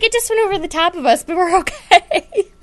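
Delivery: quoting mom while laughing; giggling mock reassurance; laughing through quote. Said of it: "She's like".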